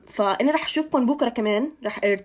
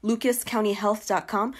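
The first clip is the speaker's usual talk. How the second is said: slow, clear dictation; much slower than usual. Shown as a demonstration. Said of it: "repeats the website".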